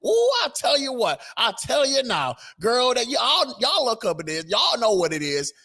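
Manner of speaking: very high, hammed-up girl-talk voice; sassy gossip voice. Commentator mocking Crockett's gossip, high and sassy. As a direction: squeal the ooh like juicy gossip. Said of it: "mocking Crockett's sassy persona".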